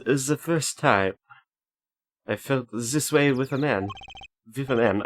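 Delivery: put-on slow, deliberate German-accented lines; Franziska voice, German accent. Gamer voicing Franziska's lines from the game, mock German accent. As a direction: put on a light German accent, stretching the words. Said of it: "a Franziska kind of voice I did last time".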